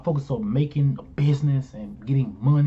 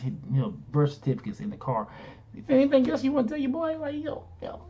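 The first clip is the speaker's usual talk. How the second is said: mock suspicious questioning; 4 semitones higher than usual. Confronting wife in retold story.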